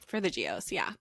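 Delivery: soft whispered aside. Real, not acted.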